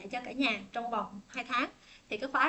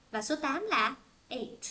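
slow contrast; slower than usual. Shown as a demonstration. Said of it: "Chữ A là A".

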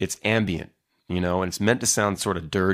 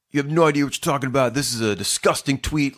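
higher, mock-indignant rant; aggressive outrage; 5 semitones higher than usual. Online stranger attacking his tweet, mock aggressive. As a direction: imitate an outraged scolding, rushing in. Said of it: "really aggressive and just weird".

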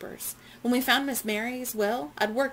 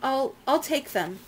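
raised and slow, firm; loud announcement; 5 semitones higher, 3 dB louder than usual. A narrator's reading. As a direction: announce it boldly. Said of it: "Jenny announced loudly".

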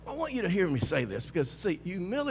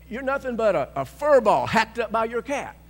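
lightly voiced sneering man, louder; mock scornful man; 5 semitones higher, 7 dB louder than usual. Preacher imitating the insulting man, mild scorn. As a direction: scoff it like the insulter.

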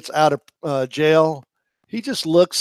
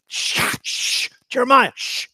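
hushing; 9 semitones higher, 3 dB louder than usual. Pretend. Hushing Jeremiah.

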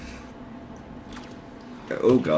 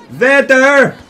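higher, louder alert; urgent call; 11 semitones higher, 6 dB louder than usual. Real, not acted. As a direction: shout to point him out. Pointing out enemy.

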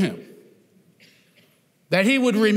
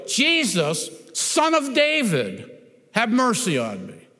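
crying out for mercy. Retold or imitated. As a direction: call out to Jesus over the crowd. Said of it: "he yells out, he screams".

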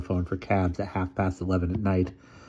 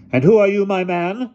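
put-on old lady voice; 13 semitones higher, 7 dB louder than usual. A narrator's reading. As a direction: speak like a commanding elderly aunt.

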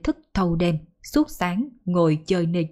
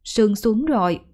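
put-on a young daughter's higher, urgent voice; lightly voiced worried daughter; hurried daughter; 3 semitones higher than usual. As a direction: anxiously hurry mom inside before the dew. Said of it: "Cô vội nói".

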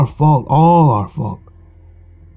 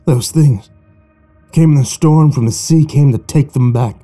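feverish tale; 2 semitones higher than usual. Acted. Joe's feverish tale of gold.

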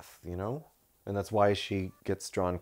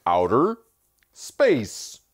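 louder, higher second take of the villain voice; Kylo Ren voice; 4 semitones higher, 10 dB louder, much slower than usual. Retold or imitated. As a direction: ham up the sexy voice. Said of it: "Especially when he goes".

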